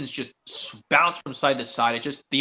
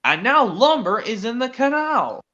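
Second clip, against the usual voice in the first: stern boss; 7 semitones higher than usual. Acted. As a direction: drag each word out like a cross boss. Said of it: "said Sir Topham Hatt".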